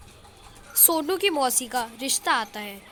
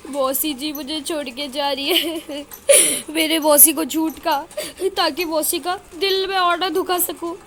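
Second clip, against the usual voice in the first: put-on mild tearful boy; 2 semitones higher than usual. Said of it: "Sonu भी रोने लगता है".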